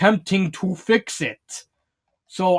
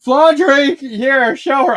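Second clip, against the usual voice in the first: louder, higher bossy order; mock command; 8 semitones higher, 6 dB louder, much slower than usual. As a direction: call Flandre over like a boss. Character orders Flandre.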